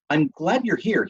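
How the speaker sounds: talking through a mouthful of chicken; chewing while speaking; mouth full. A narrator's reading. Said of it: "speaking with his mouth full".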